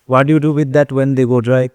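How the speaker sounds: slow, deliberate quoted question; lightly voiced visitor asking about dry cows; quoting a visitor. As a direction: spell out the question slowly. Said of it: "उसको पूछ रहा है कि".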